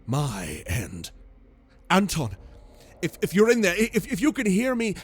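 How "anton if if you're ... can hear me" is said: near tears. A narrator's reading. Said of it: "tears were gearing up".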